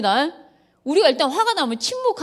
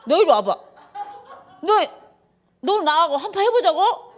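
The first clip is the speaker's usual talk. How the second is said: higher, laughing mock fury; mock angry mom; 6 semitones higher than usual. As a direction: challenge the daughter to a showdown, hammed up. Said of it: "내가 막 이런 적이 있다니까요".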